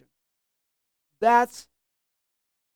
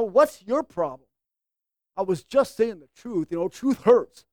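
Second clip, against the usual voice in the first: condescending; 4 semitones lower than usual. Acted. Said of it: "you could be condescending like that".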